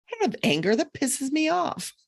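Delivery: mock angry denial. Denying anger while angry.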